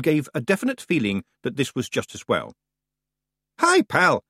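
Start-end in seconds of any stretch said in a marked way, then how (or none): 3.6-4.2 high, loud Scots greeting; cheerful. A narrator's reading. Rob greeting the ferryman, cheerfully. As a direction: hail him brightly as an old pal. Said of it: "said Rob Anybody cheerfully".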